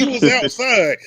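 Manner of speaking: slow words through laughter; laughing. Real, not acted. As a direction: laugh while saying it. Laughing about Kanye outside.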